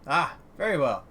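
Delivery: polite, formal merchant sign-off; lightly voiced dwarf trader. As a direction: lightly play an obliging dwarf stallholder. Voices dwarf stallholder in game.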